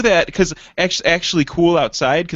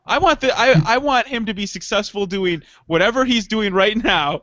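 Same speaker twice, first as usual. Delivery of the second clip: excited; 4 semitones higher than usual. Real, not acted. Excited plea for Eric.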